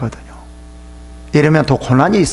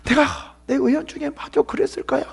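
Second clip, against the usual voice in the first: higher, fading self-accusing murmur; mock self-blaming believer; 9 semitones higher, 3 dB quieter than usual. Sufferer blames himself before God, higher mock resignation. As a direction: resign yourself to guilt, trailing off. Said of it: "그래서".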